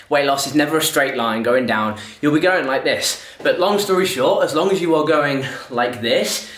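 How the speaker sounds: talking while jogging; breathless from running; out of breath. Real, not acted. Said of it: "Sorry, I'm really out of breath".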